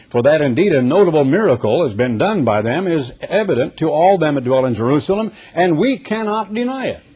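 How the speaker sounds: forceful, measured Bible reading; preacher reading Scripture aloud; emphatic Scripture reading. Acted. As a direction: proclaim the verse to a congregation.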